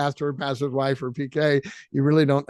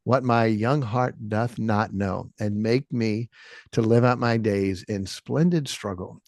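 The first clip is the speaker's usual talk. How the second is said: slow, lower, moved recitation; choked up reciting; 4 semitones lower, slower than usual. Real, not acted. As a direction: read it slowly, a little moved. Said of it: "I got choked up".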